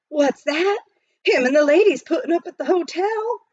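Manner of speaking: can't believe the news; mildly excited miner; eager question. Acted.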